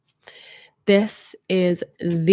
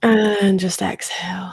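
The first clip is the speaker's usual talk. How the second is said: right in your ear; slower than usual. Acted. Final breathing cue.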